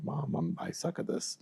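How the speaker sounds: high, small voice fading to a whisper; retold dejected confession. Struggling litigator calling mom, retold in a small dejected voice. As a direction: softly own up to failing, imitating a plea. Retold defeated phone call to mother.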